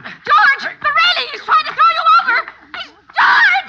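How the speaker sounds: high, loud terrified shriek; panicked screaming. Acted. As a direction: scream in terror for him. Screaming as George is attacked.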